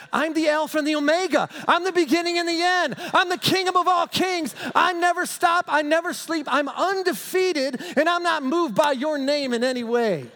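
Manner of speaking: high, loud, full-force declaration; thundering proclamation. Acted. Jesus overrules the demons' boast, loud triumphant proclamation. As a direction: preach it as a booming, unshakable boast.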